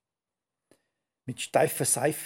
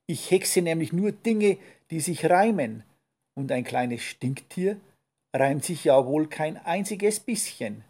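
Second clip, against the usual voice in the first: grumbling witch; 3 semitones higher, 4 dB louder than usual. Acted. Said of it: "brummte die Hexe".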